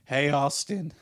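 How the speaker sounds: put-on clumsy stab at an Australian accent; bad, breathy Australian impersonation; attempted thick Australian accent. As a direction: badly imitate a drunk Australian buddy. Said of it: "his, like, thick accent that I'm trying to do".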